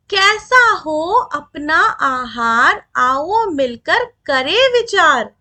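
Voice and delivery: put-on slow, measured reciting of verse for children; poem recitation. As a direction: read each line slowly and rhythmically, like a class poem. (धीमी लय में कविता पाठ)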